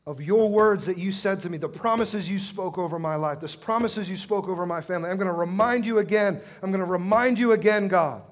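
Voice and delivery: loud, insistent plea building to a shout; pleading with forceful, driving repetition; persistent widow. Acted. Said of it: "is the persistent widow".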